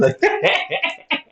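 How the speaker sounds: thin, very high-pitched laughter; high squealing laugh. Real, not acted. Laughing at being locked up again, high squeal. Laughs at own absurd retelling.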